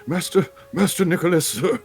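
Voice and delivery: a hint of a fawning butler, laughing through it. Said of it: "can you just do your butler voice".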